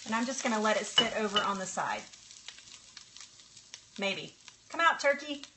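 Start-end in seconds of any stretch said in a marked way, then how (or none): 4.7-5.4 high, sing-song coaxing; playful coaxing. Pretend. Cook talking to the turkey stuck in her skillet, coaxing. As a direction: coax it out in short high calls.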